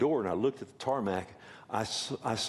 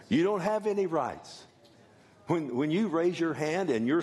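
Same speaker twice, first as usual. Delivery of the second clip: emphatic preaching; 6 semitones higher than usual. Real, not acted.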